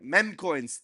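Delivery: "Meme" echoed in someone else's unusual pronunciation; "Meme coins" mimicked with an unusual vowel in "Meme"; imitated pronunciation. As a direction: copy the odd way he said "Meme coins". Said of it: "never heard it said like that".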